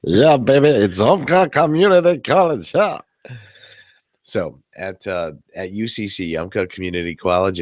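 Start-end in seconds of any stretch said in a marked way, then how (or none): 0.0-3.0 higher, louder hammed-up cheer; goofy triumphant shout; mock cheer. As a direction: ham up the college name like a victory. Mock-celebrating after stumbling on name.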